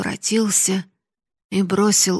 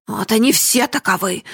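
a mild raised exclamation; lightly raised outcry; shouting; 3 semitones higher, 4 dB louder than usual. Acted. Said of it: "закричал Гранде".

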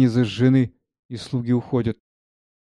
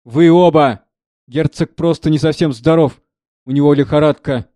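annoyed steward; 2 semitones higher, 6 dB louder than usual. Acted. Steward snaps at both nosy servants, louder and curt. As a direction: cut the servants short.

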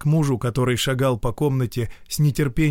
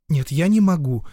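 firm; 6 semitones higher, 4 dB louder than usual. Acted. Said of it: "решительно произнесла Вольская".

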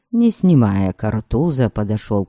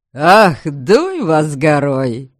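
в сердцах; 4 semitones higher, slower than usual. Acted. Алексей в досаде бранится.

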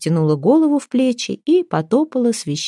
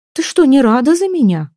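surprised; 7 semitones higher, 4 dB louder than usual. Acted. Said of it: "удивилась Ева".

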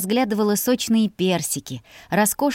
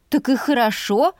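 suddenly eager and higher; enthused; 5 semitones higher than usual. A narrator's reading. Sister suddenly enthusiastic about the maids, eager. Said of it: "воодушевилась я".

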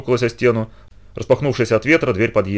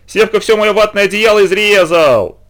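high, louder tattling wail; wailing complaint; 9 semitones higher, 5 dB louder, slower than usual. Acted. Girl wails to her mother about the cut blanket. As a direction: howl the complaint to mum, slowly.

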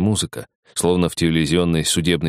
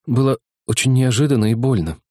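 complaining woman; 6 semitones higher than usual. Acted. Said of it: "пожаловалась женщина".

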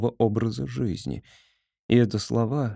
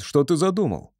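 frightened; 6 semitones higher than usual. A narrator's reading. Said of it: "голос зазвенел от испуга".

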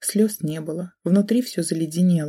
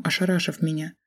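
usual speaking voice

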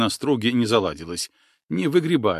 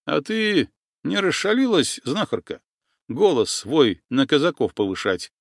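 indignant; 5 semitones higher than usual. Acted. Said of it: "возмутился Кондрат Чугреев".

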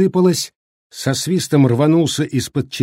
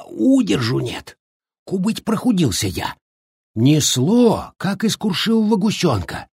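put-on complaining old man; 3 semitones higher than usual. Shchukar complains.

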